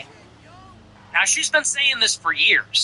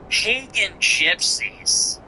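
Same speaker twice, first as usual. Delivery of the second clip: mock drama; 3 semitones higher, much slower than usual. Mocking quoted phrase.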